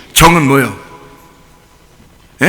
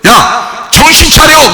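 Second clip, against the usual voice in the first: higher-pitched mock scolding shout; acted scolding call; 6 semitones higher, much slower than usual. Preacher acting out people rousing someone witless, scolding call. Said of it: "정신없는 사람들 보고 뭐라 그래요".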